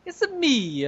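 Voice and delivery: high-pitched game mascot catchphrase; Mario. Acted. Podcaster echoing a friend's joke, high mascot impression. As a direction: chime it high, in cartoon character. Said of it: "the Mario from Mario sixty-four".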